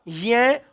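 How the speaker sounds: य said as a nasal y sound through the nose; pure pronunciation. Shown as a demonstration. Teacher giving students the pure sound of य, nasal. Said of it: "इसका शुद्ध उच्चारण क्या होगा".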